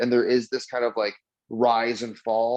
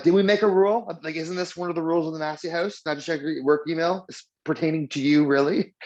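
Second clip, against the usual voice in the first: mock scolding; 4 semitones higher than usual. Mock scolding wife about house rule.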